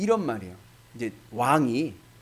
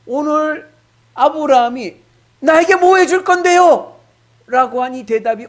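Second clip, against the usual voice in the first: 높고 크게 외치는 설교; 따지듯 높게 외치며; 11 semitones higher, 12 dB louder than usual. Real, not acted. (아브라함의 대꾸를 높고 크게 외치는 설교)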